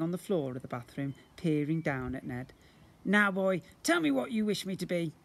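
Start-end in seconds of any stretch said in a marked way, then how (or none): 3.0-5.1 higher, louder creature voice for the slime; booming slime creature. Acted. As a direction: play the magical blob, grand and eager. Slime character voice.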